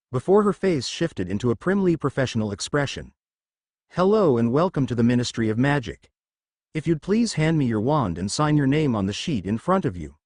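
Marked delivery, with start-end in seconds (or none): 3.9-10.2 a touch of dull, nasal drone; lightly voiced bored clerk; nasal monotone. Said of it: "nasal voice dull and monotone".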